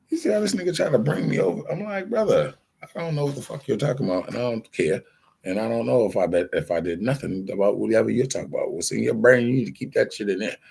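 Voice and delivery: high, fast, worked-up retelling; rattling it off, pitch climbing with disbelief; heated retelling. Retold or imitated. To the guy trying to bring him over, fast exasperated retort.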